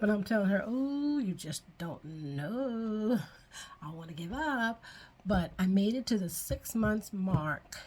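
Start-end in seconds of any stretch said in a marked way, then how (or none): 0.7-4.8 retold weary protest. Telling sister-in-law how hard it is, weary protest. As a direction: stretch it out in mock despair.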